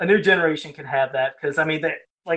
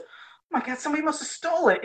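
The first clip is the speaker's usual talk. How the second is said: high, fast mock alarm; boy faking dismay to his girlfriend; fake shock; 10 semitones higher than usual. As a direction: act shocked and blame a thief. Fake shock, blaming a thief.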